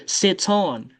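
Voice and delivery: "Sits on" run together as sit-son; liaison. Shown as a demonstration. Teacher showing how to make the liaison, linked words. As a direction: link the s of "Sits on" onto the vowel. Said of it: "faut faire liaison comme ça".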